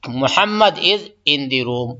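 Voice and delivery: slow, careful model answer; unhurried teacher demonstration; slow teaching model. Shown as a demonstration. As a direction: spell it out slowly for the class. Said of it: "तो बोलेंगे".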